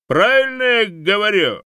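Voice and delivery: very loud, high bellow; booming demand. A narrator's reading. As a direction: demand the crowd agree. Bear demands agreement.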